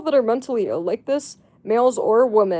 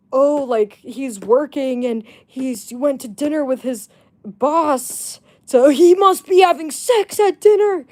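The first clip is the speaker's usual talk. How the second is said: slow, mock-reasoning friend voice; mocking friend's logic; 4 semitones higher, 4 dB louder than usual. Mocking the friend's reasoning about the dinner, slow. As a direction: spell out the absurd leap. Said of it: "how do you go from".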